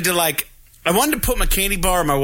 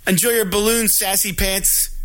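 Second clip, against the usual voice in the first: imitated snide send-off, pitched up; bitchy parting jab; 4 semitones higher than usual. Complaining lady to the departing balloon customer, snide imitation. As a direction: needle them as they leave. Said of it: "the lady who was bitching".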